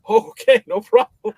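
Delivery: high, loud, eager agreement; mock cheerful compliance. Guest obeying the warning, high and loud. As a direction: chirp it like a happy yes-man. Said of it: "I'm like".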